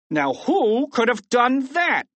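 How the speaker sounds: high, swooping demand; emphatic high-pitched questioning; exasperated question. A narrator's reading. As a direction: ask it in mock bafflement. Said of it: "asked Misdemeanor".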